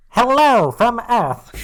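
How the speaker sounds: high, slow, booming shout; loud hail. Acted. Hailing aliens from Earth, loud high shout. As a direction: shout it slowly at a far-off planet. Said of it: "That was a bit loud".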